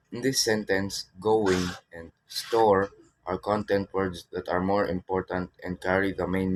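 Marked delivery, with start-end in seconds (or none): 1.2-1.7 "going" said firmly as a stressed word. Shown as a demonstration. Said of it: "Therefore, they are stressed". 2.3-2.9 "store" said louder, set apart; stress on "store". Shown as a demonstration. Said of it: "Therefore, they are stressed".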